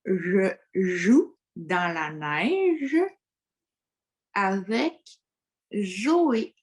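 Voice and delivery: very slow, pencil between the teeth; pencil in mouth. Shown as a demonstration. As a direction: speak slowly around a pencil. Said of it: "Je peux même l'essayer avec le crayon".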